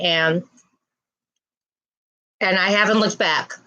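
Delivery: talking while chewing gum; words round a piece of gum. Real, not acted. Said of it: "Sorry about my gum chewing".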